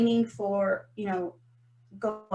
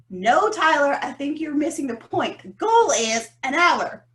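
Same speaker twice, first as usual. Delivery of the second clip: louder, pressing the point about the hour; insistent; 3 semitones higher, 5 dB louder than usual. Retold or imitated. She corrects Tyler about the one-hour goal, firm and insistent. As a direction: set him straight, firmly.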